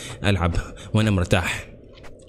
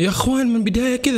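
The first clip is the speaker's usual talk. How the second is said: hushed frightened whisper to the viewers; 12 semitones higher than usual. Real, not acted. Gamer hearing the evil voice, whispering to his viewers. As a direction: whisper so the game won't hear.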